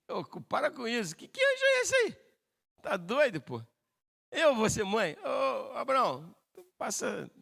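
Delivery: hammed-up scoffing at absurd news; ironic disbelief. Sara telling Abraham to ignore that angel, mock incredulous scoff. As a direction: brush it off as crazy talk, incredulous.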